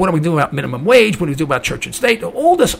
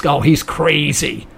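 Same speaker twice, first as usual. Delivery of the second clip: mock dismissive; 4 semitones lower, slower than usual. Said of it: "Ron Paul is".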